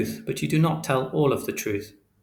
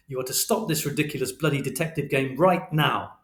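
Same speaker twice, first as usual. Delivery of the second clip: raised, hard, relentless fatherly lecture; stern final warning; 3 semitones higher than usual. Acted. Father forbidding Christopher from detective work, angry and firm. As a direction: hammer each order home, losing patience.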